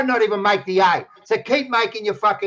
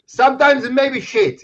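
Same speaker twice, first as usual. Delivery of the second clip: Italian coach impression; 3 semitones higher, 3 dB louder than usual. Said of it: "He goes to Malacca".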